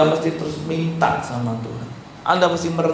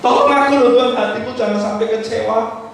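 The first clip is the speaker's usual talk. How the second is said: a raised, urgent repeat of the plea; 5 semitones higher than usual. Acted. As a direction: beg God harder this time. Same plea repeated stronger.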